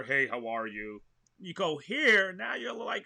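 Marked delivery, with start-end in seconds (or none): 0.0-1.0 slightly deeper voice demo; casual hello, pitched a touch down; a little deeper. Shown as a demonstration. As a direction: drop the placement a little for a greeting. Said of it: "a little deeper".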